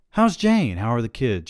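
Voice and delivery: a hint of a creaky old tycoon asking after the family; Monty Burns. Narrator imitates Monty Burns asking his agent about family. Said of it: "I did my Monty Burns".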